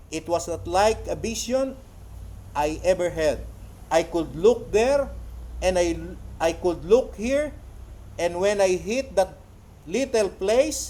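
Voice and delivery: slow, forceful phrases with pauses; preacher's quote reading. Acted. Preacher retelling a vision to the congregation, slow and forceful. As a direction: declaim it slowly, phrase by phrase. Reads quoted testimony aloud.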